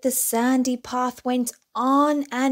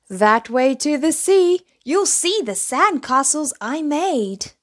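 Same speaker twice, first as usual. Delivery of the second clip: a touch higher, different character voice; tortoise voice; 5 semitones higher, 4 dB louder than usual. A narrator's reading. Tortoise pointing little bear toward the sea, lightly voiced.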